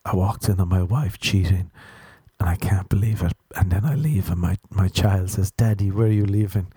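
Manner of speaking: hushed, hammed-up sob-story telling; mock sad scenario voice. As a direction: lightly mimic a teen overacting a tragic scene. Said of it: "He'll make up a scenario like".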